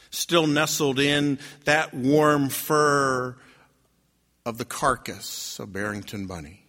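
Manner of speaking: slow, sinking storytelling; slow right down and let the voice fall; grave, hushed reveal at the end; solemn narration. A narrator's reading. Sad reveal of bunny's death.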